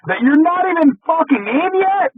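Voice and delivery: building from plain to high shout; angry rant. Retold or imitated. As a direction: ramp up to a furious yell. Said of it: "you're just like".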